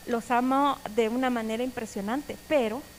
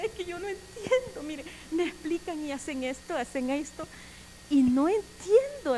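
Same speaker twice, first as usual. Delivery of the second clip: tag; 3 semitones higher than usual. Retold or imitated. Retells tearful pleading to a sister.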